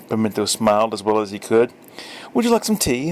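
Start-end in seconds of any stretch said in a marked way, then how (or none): 2.3-3.1 lady's voice. Acted. Lady offers tea to Pimento.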